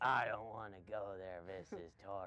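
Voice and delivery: put-on boy character voice, low and deep. Asked by another speaker to do an impersonation, The Shining kid impression. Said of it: "impersonation of that kid from The Shining".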